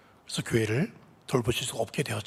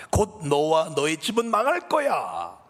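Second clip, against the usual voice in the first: slow, sinister whisper-like threat; a dark voice hissing doom; menacing evil voice; 3 semitones higher, 4 dB louder, slower than usual. Acted. Evil voice threatening the pastor's wife with ruin. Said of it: "이런 말이 들리더래요".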